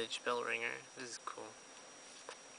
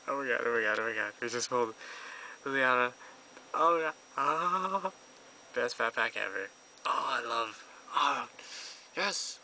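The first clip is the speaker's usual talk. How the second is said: shrieking jackpot winner; 2 semitones higher, 10 dB louder than usual. Real, not acted. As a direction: scream with joy at winning. Pulled Liliana, jackpot.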